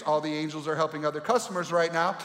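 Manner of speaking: lightly voiced automated hold message; phone menu voice. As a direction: recite options like a recorded operator. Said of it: "What if God used the familiar excuse".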